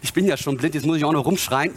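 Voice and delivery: low, casual mock complaint; grumbling objector. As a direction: grumble as a reluctant listener. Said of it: "Du könntest ja sagen".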